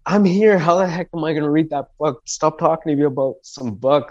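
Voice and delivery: high, incredulous mock complaint at his mom; retelling his fed-up reply to his mother, high and disbelieving; exasperated retort. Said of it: "I'm like".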